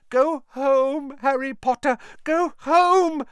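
high elf plea, urgent; pleading house elf. Acted. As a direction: beg him to go home. First plea.

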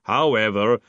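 heavy, deliberate creature voice; rumbling golem. A narrator's reading. Golem forbidding Moist, rumbling. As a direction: state it firmly and formally. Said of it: "the golem rumbled".

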